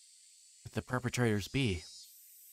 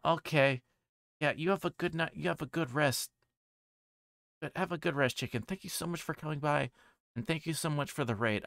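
put-on higher, chirpy girl voice; a cheerful girl voice, much higher than his own; 7 semitones higher than usual.

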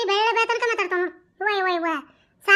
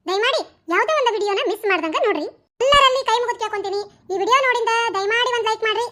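channel outro. Real, not acted. Channel outro appeal to viewers.

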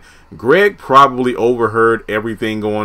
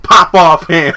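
disbelieving echo; 3 semitones higher, 5 dB louder, slower than usual. Retold or imitated. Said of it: "I was like".

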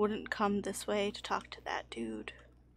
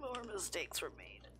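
soft, sinking in pitch; low, subdued wry admission; quiet resignation; 3 semitones lower, 10 dB quieter than usual. Real, not acted. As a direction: let it fall away, defeated by another blunder. Resigned after another blunder.

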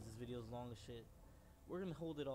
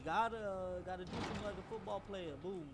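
hyped shout; 7 semitones higher, 8 dB louder than usual. Real, not acted. Hyped running.

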